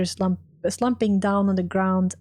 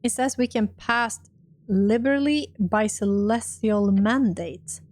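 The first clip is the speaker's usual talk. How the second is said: normal talking voice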